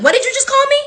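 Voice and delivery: fast heated challenge; fed-up server calling them out; confrontational. Retold or imitated. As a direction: square up to the table. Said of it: "I was completely over it".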